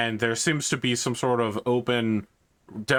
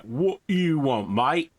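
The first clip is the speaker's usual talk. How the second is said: gruff, higher guard asking what he wants; a bored guard with a higher, rough edge; 5 semitones higher, slower than usual. Acted. Guard challenging the priest, gruff and higher. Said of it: "they're like".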